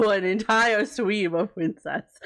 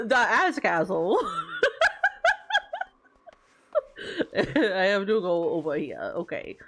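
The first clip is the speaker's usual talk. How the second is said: sweet princess voice, as if redeemed; cartoon princess. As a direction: play a storybook princess. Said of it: "Okay, Princess Voice is done".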